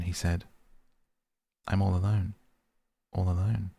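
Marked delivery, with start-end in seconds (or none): 1.7-3.7 echo. A narrator's reading. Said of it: "answered the echo".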